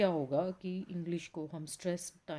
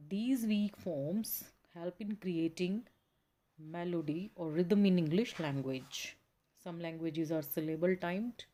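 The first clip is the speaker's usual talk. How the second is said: very slow, careful read-aloud of the textbook; much slower than usual. Acted. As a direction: read the passage out slowly for the class. Reads textbook passage slowly.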